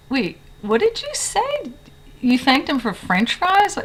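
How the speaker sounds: high-pitched mock-baffled friend; imitated disbelief. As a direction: imitate a friend who can't believe what she heard. Friend reacts to overheard thanks.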